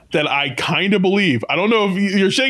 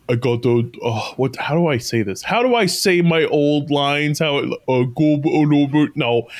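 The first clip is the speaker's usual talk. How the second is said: Arnold Schwarzenegger; 2 semitones lower than usual. Retold or imitated. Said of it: "it feels like he's trying to".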